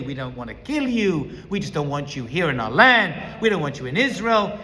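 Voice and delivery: mock sweet, softened reassurance; sugar-coated denial. Preacher voicing enemies who sweeten their hostility, mock sweet. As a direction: coat the threat in sugar, gentle and smooth. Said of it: "coat it with sugar and sweetness".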